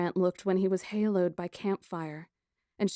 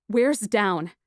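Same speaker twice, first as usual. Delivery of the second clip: demanding; 7 dB louder than usual. A narrator's reading. Heroine demanding answers.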